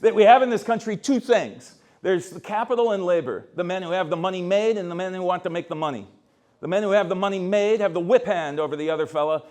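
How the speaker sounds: a hint of a fiery Irish priest, no real accent; quoting a radical priest. Lecturer quoting a priest attacking the mayor, lightly declaimed. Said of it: "I can't do an Irish accent".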